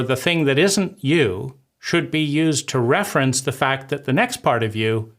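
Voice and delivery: ordinary talk, nothing marked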